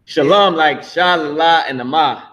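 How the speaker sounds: "Shalom" whole, then "sha, la, ma" piece by piece; syllable breakdown. Shown as a demonstration. Teacher showing how we say it, "Shalom" split into sha, la, ma. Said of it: "It's how we say it".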